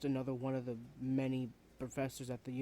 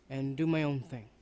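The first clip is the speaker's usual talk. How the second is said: defiant outburst; 7 dB louder than usual. Acted. Student announcing departure.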